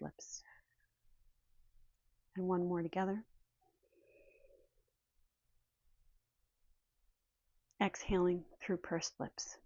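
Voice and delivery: calm meditation leading, leaving space between phrases; guided meditation. Real, not acted. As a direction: guide the listeners gently through breath and noticing. Leads guided breathing meditation.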